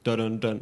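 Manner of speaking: "dun dun dun" with the English "uh" vowel; mimicked English syllable. Shown as a demonstration. Teacher imitating how viewers say it, repeated English "dun". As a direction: repeat "dun" as a mocking example. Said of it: "like you guys say with a dun".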